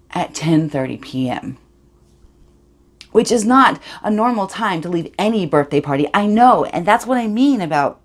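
put-on insistent, defensive teen monologue; agitated Katie. Katie explaining everyone left her birthday, hurt insistence. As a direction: punch key words with rising pitch and force.

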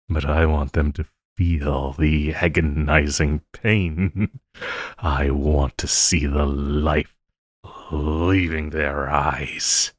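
low, slow villain relishing the threat; dark, drawn-out gloating over the heroes' pain; sinister gloat. Acted. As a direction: savour every word like a cruel mastermind. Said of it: "after hearing me talk like that".

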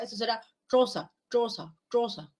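choza with the tongue tip curled back; retroflex ch. Shown as a demonstration. Teacher demonstrating retroflex ch in choza. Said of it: "Sonido retroflejo".

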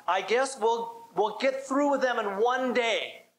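slow, mildly smug boast. Retold or imitated. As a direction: drawl out the boast with a touch of smugness. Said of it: "He replied rather smugly".

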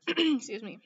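ordinary talk, nothing marked

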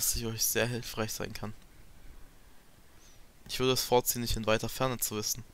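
lightly voiced characters in a dramatic read; reading game dialogue. Player reading a Fire Emblem cutscene aloud, lightly voiced dramatic read. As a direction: read the cutscene lines like a dub.

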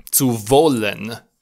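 slow, clear German zu wollen, w as v; German model word. Shown as a demonstration. Teacher models the word for learners, slow and clear. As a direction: pronounce wollen slowly with a v sound. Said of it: "Se pronunță".

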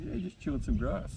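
lightly voiced ventriloquist's cow; thrown-voice cow. Joke teller answering as the cow, lightly put-on voice. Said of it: "throws his voice".

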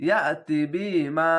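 "ইয়াতি বিমা" with a catch after ya and long "মা"; jolt on hamza. Shown as a demonstration. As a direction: jolt "ইয়া", then draw out "মা". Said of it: "ঝোঁক মেরে পড়বেন". ("ইয়া" ঝোঁক মেরে, "মা" টেনে)

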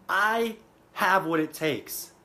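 slow, deliberate vow to yourself; firm affirmation. Shown as a demonstration. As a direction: say it like you mean every word, slowly. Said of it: "you need to say".

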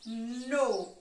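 "No" said alone as one beat; teacher splitting inverno into syllables. Shown as a demonstration. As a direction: sound out the syllable "No". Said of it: "vou marcar a sílaba ao passo que eu vou pronunciando".

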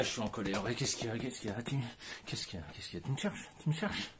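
mock aggressive. Shown as a demonstration. Coach acts out expressing anger, mock menacing. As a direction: pick a fight, looking for trouble. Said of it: "la méthode qui fonctionne".

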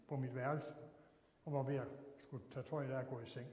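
ordinary talk

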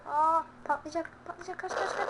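high, urgent cries to flee; panicked shouting. Real, not acted. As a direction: yell in alarm as it's about to blow. Panik içinde oyun karakteri kaçıyor. (paniklemiş, yüksek sesle kaç diye bağırma)

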